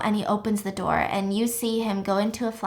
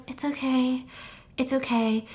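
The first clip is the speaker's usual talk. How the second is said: soft, soothing retold reply; gentle reassurance; 3 semitones higher, 4 dB quieter than usual. Everyone comforts Will after his apology, soft reassurance. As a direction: reassure softly.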